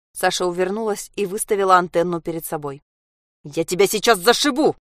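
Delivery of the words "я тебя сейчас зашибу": growl. Acted. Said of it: "прорычала мама".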